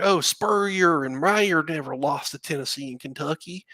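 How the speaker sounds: lightly mocking dumb-fan voice, rising at the start; a hint of a know-it-all fan; stupid fan accent. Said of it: "I do such a stupid accent for our fans".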